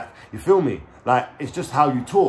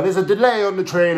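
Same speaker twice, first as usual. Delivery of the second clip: higher, louder mock announcer; raised-voice imitation of a station announcer; station announcement; 7 semitones higher, 6 dB louder than usual. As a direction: imitate an Underground delay announcement. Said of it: "when they make announcements and stuff".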